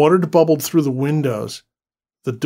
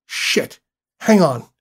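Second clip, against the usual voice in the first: whispered curse then loud cry; urgent shout; 3 semitones higher, 3 dB louder, slower than usual. Acted. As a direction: brace for impact, yelling. Crash about to hit.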